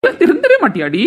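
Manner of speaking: high, loud exasperated yell with a laugh; exasperated shout. Acted. Husband yelling at his stubborn wife, exasperated. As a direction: throw up your hands at her.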